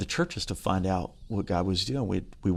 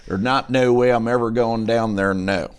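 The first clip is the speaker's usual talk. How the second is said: put-on redneck Carolina accent; 4 dB louder than usual. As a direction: insist in a thick country Carolina twang. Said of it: "about as redneck as they come".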